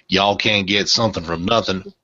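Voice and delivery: lightly put-on Southern accent; mock Southern accent, lightly done. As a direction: play up a stereotype Southern accent a little. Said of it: "Pardon the Southern accent".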